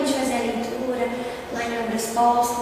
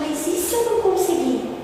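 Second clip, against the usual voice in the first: humble question; 4 semitones higher, 4 dB quieter than usual. Retold or imitated. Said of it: "Olha a diferença da entonação da pergunta".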